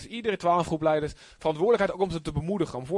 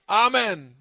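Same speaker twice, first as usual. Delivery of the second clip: firm, louder declaration; affirming amen; 3 semitones higher, 4 dB louder than usual. Shown as a demonstration. Congregation answering a prayer, affirming. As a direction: seal the prayer with it. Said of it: "En dan zeg je".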